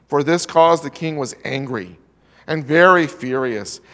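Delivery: measured formal Bible reading; scripture reading. Acted. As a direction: read the King James passage steadily to the church. Reads Daniel chapter two aloud.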